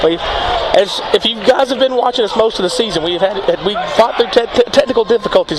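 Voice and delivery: talking out of breath; winded, catching his breath. Real, not acted. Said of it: "It's why I'm out of breath".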